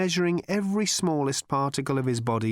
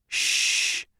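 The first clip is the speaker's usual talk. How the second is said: whispered hush. A narrator's reading. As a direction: hush them like someone listening. Slartibartfast hushes them.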